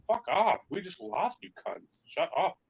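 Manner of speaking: high, loud furious yelling at laughing opponents; angry yell. Retold or imitated. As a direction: bark it at the people laughing after the loss. Acted angry yell after losing.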